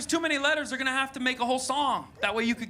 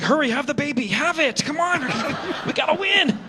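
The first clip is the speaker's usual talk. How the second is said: urgent coaxing that climbs higher; competitive urging; 5 semitones higher than usual. Acted. Comedian mimics a competitive audience member rushing a birth, urgent. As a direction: act out someone egging on a birth to win. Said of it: "someone competitive, like".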